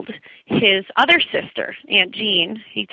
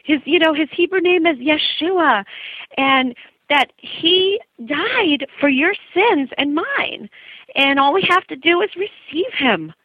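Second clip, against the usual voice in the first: put-on higher New York Jewish accent; 7 semitones higher than usual. The speaker explaining Yeshua, in a Jewish accent. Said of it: "this is my Jewish accent coming in".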